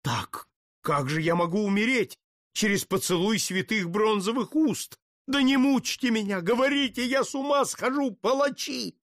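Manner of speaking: rising panic. Acted. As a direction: pitch climbing into high frantic pleading.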